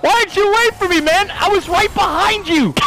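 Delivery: high, loud whiny complaint; mock the jungler scolding his laner; mock angry jungler. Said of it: "he's like".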